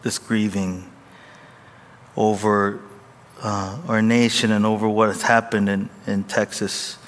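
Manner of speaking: hushed, earnest prayer voice. Acted. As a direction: reverent pastoral prayer. Opening prayer.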